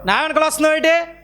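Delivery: mock stern scolding of a stalker; harsh rebuke. Shown as a demonstration. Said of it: "మాట్లాడాలి నువ్వు ర్యాష్గా".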